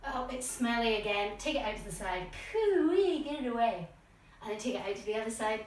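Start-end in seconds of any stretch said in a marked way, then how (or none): 2.3-3.9 playful high yuck; hammed-up disgusted pooey for the kids; mock disgust. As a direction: pull a face at the smelly foot. Foot is smelly.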